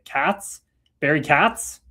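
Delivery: "Katz" with short A as in cat, questioning rise; short A pronunciation. Shown as a demonstration. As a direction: try "Katz" with a flat cat vowel, as a question. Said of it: "with a short A".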